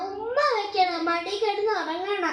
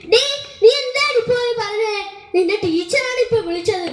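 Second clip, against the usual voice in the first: angry scolding mother; 2 semitones higher, 4 dB louder than usual. Acted. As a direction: confront the child, furious. Mother scolds daughter after call. (ദേഷ്യത്തോടെ ശകാരിക്കുന്നു)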